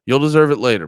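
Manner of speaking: half-joking threat at a chatter; mock threat.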